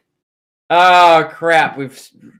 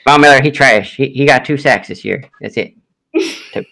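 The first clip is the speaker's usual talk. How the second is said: put-on Southern Kermit accent. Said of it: "So I sound like Kermit from the South".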